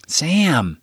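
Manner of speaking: pained whispered plea, through the pain; grimacing whisper. A narrator's reading. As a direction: whisper his name while wincing. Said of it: "just grimaced and said".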